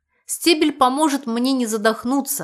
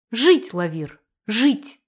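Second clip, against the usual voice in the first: life-affirming cry; slower than usual. Acted. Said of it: "жизнеутверждающе воскликнула я".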